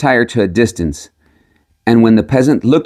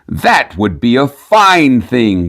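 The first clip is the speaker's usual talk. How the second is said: drawn-out astonishment, lightly voiced; very slow amazed cry; much slower than usual. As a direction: stretch it out in mild wonder. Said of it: "cried the miller".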